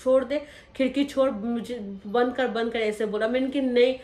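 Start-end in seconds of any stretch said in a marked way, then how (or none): 0.0-2.8 angry order. Retold or imitated. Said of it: "भाग के आया". 3.6-3.9 louder defiant no; retold louder cry of refusal; screaming no. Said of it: "मैं बहुत ज़्यादा चीखने लगी".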